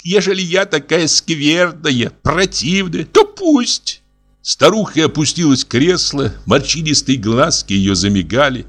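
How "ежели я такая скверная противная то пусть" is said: lightly voiced aggrieved old widow, higher; a hint of an offended old lady; old matron complaining of ingratitude; old woman voice.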